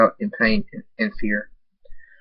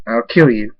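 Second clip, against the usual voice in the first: angry threat; 6 dB louder than usual. Acted. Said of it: "David says".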